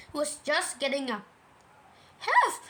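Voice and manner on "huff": high, loud panicked gasp of a word; squeaked, winded alarm; out-of-breath Piglet. A narrator's reading. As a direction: burst it out with no breath left. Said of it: "breathing so hard that he could hardly speak".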